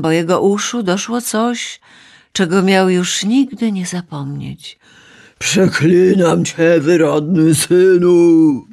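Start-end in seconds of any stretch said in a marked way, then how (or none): 5.4-8.7 slow, loud cursing scream; screaming while falling. A narrator's reading. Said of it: "wrzeszczał spadający w ciemność Uranos".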